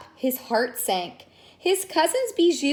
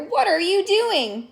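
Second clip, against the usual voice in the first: surprised; 8 semitones higher, 4 dB louder than usual. Acted. Grandfather startled.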